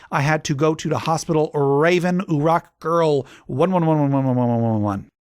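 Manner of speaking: whiny, lisping goth author snapping at critics; mock a sulky teenage writer ranting. Second author's note, same put-on voice.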